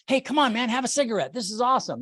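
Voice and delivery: a hint of a peer-pressuring teen; high school smoker. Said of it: "like the smokers in high school".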